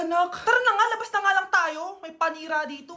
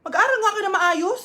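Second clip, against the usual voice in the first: scolding teacher; 4 semitones higher, 4 dB louder than usual. Acted. Teacher scolding TikTok kids.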